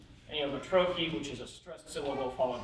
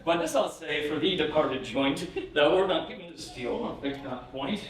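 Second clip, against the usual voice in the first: poem reading; 2 semitones higher than usual. Acted. Reads the Randolph poem aloud.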